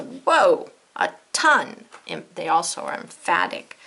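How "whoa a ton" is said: excited. Shown as a demonstration. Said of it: "'cause that's a lot".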